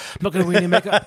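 Crystal. Acted. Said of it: "Crystal was embracing that. He's like".

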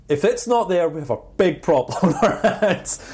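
retold warning breaking into laughter; laughing warning. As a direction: crack up while laying down the warning.

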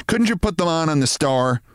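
wife scolding her dreamy husband; nagging wife. Acted. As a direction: tell him off impatiently.

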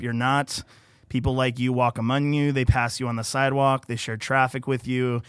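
steady, earnest read of a personal post; reading aloud. Acted. Guest reads his post aloud to the podcast host, earnest and steady. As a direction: read your own words to the listeners.

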